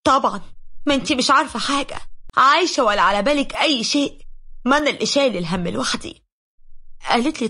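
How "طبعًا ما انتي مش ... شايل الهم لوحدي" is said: angry reply. Retold or imitated. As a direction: throw it at her in bitter frustration. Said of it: "قلت لها بغضب".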